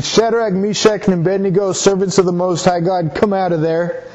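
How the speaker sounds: king calls high into the furnace; king calling the three men out of the furnace. Acted.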